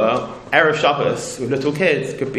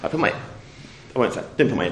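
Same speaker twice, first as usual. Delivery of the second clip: sheepish aside; 6 dB quieter than usual. Real, not acted.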